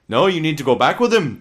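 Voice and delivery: lightly put-on old-school Jewish accent; a hint of Yiddish-comic accent. Rabbis in court refusing a wife's divorce, in a put-on Jewish accent. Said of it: "I don't know why I'm adopting this accent".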